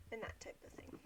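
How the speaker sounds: breathless, barely voiced trailing off; winded, air running out; out of breath. Real, not acted. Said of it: "I'm out of breath".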